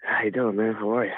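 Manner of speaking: low, smooth sultry greeting. Acted. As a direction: purr the greeting seductively. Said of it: "My sultry voice".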